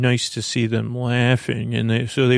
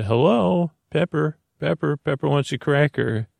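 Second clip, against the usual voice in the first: high squawky parrot, pitched up; 4 semitones higher than usual. Retold or imitated. Parrot Pepper greeting the kids, high squawky parrot voice. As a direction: play the parrot asking for a cracker.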